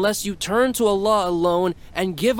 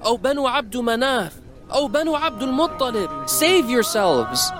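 calling out; 12 semitones higher than usual. Acted. Prophet calls out to clans.

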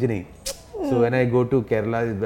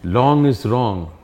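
laughing; 5 dB louder, much slower than usual. Real, not acted. Teasing comeback with laughs.

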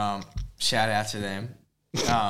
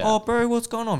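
high-pitched New Zealand bro accent; exaggerated Kiwi lilt, pitched way up; mock Kiwi accent; 11 semitones higher, 3 dB louder than usual. Shown as a demonstration. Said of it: "generic Kiwi accent".

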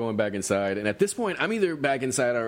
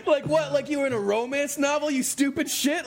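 much higher, laughing mockery; laughing disbelief. Teller mocks friend's romance-novel move, laughing. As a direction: ridicule him through laughter.

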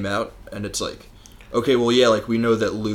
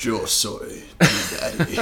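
laughing joke; slower than usual. Pretend. Joke Spanish Vader.

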